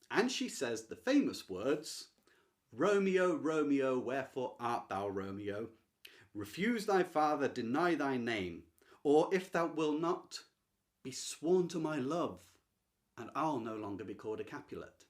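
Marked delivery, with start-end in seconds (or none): 2.7-5.7 loud first call, falling away without grace; recited without grace, starting loud; unanimated reading. Shown as a demonstration. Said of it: "I've read that with, like, no grace and no animation at all". 6.3-15.1 recited without grace, starting loud; unanimated reading. Shown as a demonstration. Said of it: "I've read that with, like, no grace and no animation at all".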